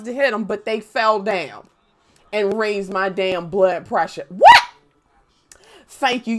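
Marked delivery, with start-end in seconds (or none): 4.3-4.6 sharp high loud what; surprised what. Real, not acted. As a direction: burst out in surprise. Sudden surprise.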